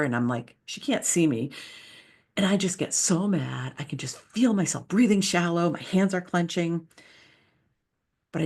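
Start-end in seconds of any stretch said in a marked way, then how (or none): 2.4-3.7 a tight whisper about getting mad; whispered memory of anger. Retold or imitated. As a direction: breathe it out as a whisper. Reliving anger in a story.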